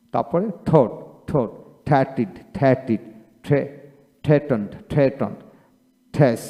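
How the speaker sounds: th words such as থিঙ্ক and থার্টিন said twice with an aspirated থ; th pronounced as Bengali থ, repeated drill. Shown as a demonstration. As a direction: keep drilling th as থ, word by word. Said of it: "টিতে থ উচ্চারিত হয় কোথায়?".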